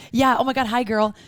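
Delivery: lightly imitated tipsy girl greeting; a touch of gushy, tipsy hello. Tipsy woman greeting someone she never met, mildly gushy imitation. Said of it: "like, a little tipsy girl".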